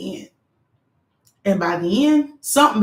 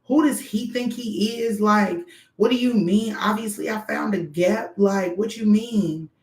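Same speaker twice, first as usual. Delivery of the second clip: indignant rant; 2 semitones higher than usual. Retold or imitated. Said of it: "I was so mad".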